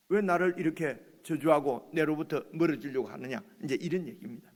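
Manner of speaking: ordinary delivery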